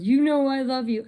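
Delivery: hammed-up high plea; pleading boyfriend. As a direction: imitate a cheater begging for love. Retold cheating boyfriend pleads.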